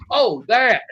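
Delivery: high, loud mock realisation; playing stupid. Wrestler caught out by his boss, high-pitched feigned innocence. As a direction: pretend it only just dawned on you. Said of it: "when I started playing stupid".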